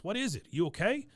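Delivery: high, startled asking; startled concern. Retold or imitated. Son alarmed, asking his mother what's wrong, startled and high. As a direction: voice jumps up in sudden alarm.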